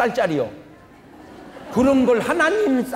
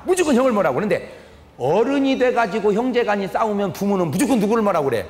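normal talking voice

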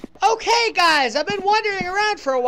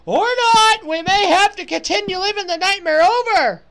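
loud, higher mock-doom announcement; dramatic outburst; 5 semitones higher, 5 dB louder than usual. Real, not acted. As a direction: throw it out like a twist. Game continues unexpectedly.

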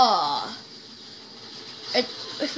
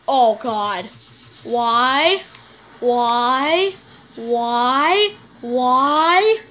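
panicked pleading; 4 dB louder, much slower than usual. Real, not acted. Enemy attacking in game.

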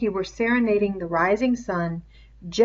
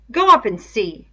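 contemptuous; 3 semitones higher, 8 dB louder than usual. A narrator's reading. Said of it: "said Jack contemptuously".

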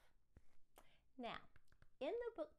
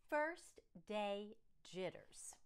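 title reading; slower than usual. Acted. Title read again slowly.

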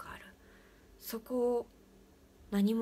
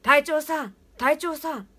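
loud, higher ghostly cry; voice getting louder; 7 semitones higher, 14 dB louder than usual. Retold or imitated. The voice from the pit cries the captain's name ever louder. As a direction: let the call swell to a near shout. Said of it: "どんどん声が大きくなる".

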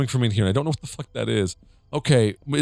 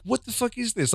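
very high disbelieving squeak; high incredulous; 12 semitones higher, 5 dB quieter than usual. Retold or imitated. Her retold reaction.

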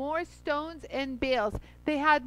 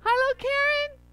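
higher, louder lilting greeting; singsong hello; 12 semitones higher, 6 dB louder than usual. Real, not acted. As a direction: sing out the hello.

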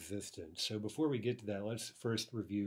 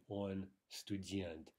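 slow model sentence; 4 dB quieter, much slower than usual. Shown as a demonstration. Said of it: "we simply say".

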